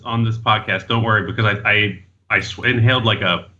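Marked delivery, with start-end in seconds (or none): none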